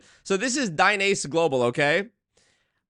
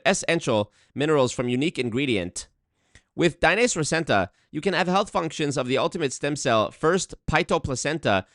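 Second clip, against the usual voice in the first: mock Nigerian accent. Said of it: "in the Nigerian voice the whole time".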